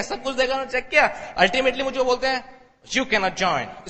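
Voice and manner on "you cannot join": put-on American accent. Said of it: "American accent".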